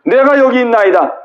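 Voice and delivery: 높고 힘찬 간절한 응답; 손 들고 나서듯 힘차게; 이사야의 자원. Acted. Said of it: "이사야가 두 손을 번쩍 들고". (이사야가 높고 힘차게 자원하는 목소리)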